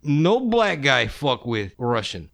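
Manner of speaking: lightly put-on Russian accent. Skinny guy trying to be hard on the train, mock Russian accent. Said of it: "doing a Russian accent".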